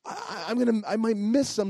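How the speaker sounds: mildly flustered, stammering near the end; retold worry, tripping over the words; panicky. Husband fretting about leaving his post, mildly panicky. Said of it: "So I'm all panicky".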